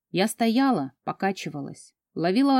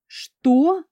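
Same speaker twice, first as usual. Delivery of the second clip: stunned gasp; 8 semitones higher, 4 dB louder than usual. Acted. Heroine stunned by release.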